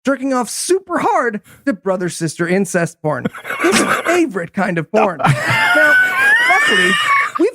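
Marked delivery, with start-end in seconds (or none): 5.2-7.5 high squeak. Real, not acted. Host's intro cut off.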